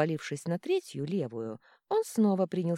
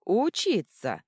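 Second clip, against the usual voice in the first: louder, higher command "Учиться"; loud bark; 4 semitones higher, 7 dB louder, slower than usual. A narrator's reading. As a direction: bark it with each punch. Troll beating dragon. (громкий приказ)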